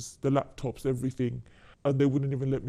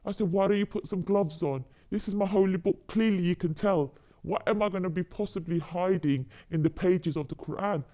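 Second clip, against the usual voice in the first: pitched-up indignant protest, mildly retold; retold outrage; 4 semitones higher than usual. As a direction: relive the anger at them touching the holy book, voice higher. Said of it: "I was really angry".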